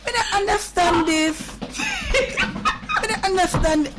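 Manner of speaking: high, stretched words through laughing; baffled wail breaking into laughter; helpless laughter. Real, not acted. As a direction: laugh until nearly crying. Baffled amid uncontrollable laughter.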